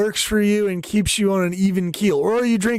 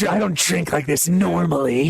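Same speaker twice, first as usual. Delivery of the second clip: Green Goblin shriek. Retold or imitated. Mimicking the drunk woman's denial, shrieking Green Goblin voice. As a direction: screech it like a cartoon villain. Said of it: "doing the Green Goblin in Spider-Man thing".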